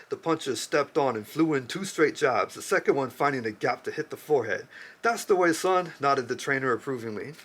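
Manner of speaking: measured book-reading voice; story reading. Acted. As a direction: read it like a novel passage. Reads a novel passage aloud.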